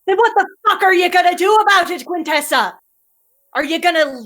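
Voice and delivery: Curling, fierce mentor. Acted. Curling challenges Quintessa to stop running, fierce then firm. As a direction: hammer her with questions, then steady her. GM voices Curling pushing her.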